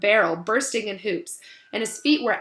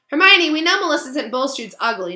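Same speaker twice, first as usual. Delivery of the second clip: urging; 6 semitones higher, 7 dB louder than usual. Acted. Coaxing through the door.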